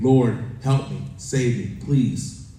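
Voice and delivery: loud, slow plea to be saved; cry for help. Acted. Sinking man calls to the Lord, loud desperate plea. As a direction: call out for rescue, a beat between pleas.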